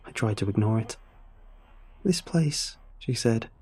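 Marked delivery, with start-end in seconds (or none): 2.0-2.8 high, uneasy mother's voice; raised, plaintive pitch; rising pitch. A narrator's reading. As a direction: lift the pitch as unease grows. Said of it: "the pitch of her voice rising".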